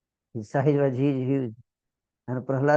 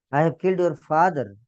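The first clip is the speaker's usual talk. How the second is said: louder and higher, weight on killed; emphatic confession; 5 semitones higher, 7 dB louder than usual. Acted. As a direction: declare the killing heavily, owning it. Lord confesses killing Prahlad's father.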